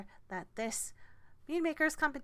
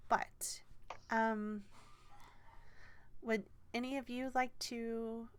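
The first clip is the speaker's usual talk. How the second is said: a hint of a flustered gnome organiser; gnomish woman; 2 semitones higher, 3 dB quieter than usual. Gnomish woman asks party.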